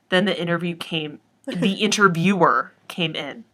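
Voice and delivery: dramatic reading of a meme post; meme read aloud. Acted. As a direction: read it like an earnest inspirational post. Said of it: "So I'll read it out loud".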